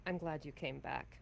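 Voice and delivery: low, quiet, fond welcome; gently voiced relief at a return; soft tenderness. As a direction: say it softly and close. Tender reunion before a kiss.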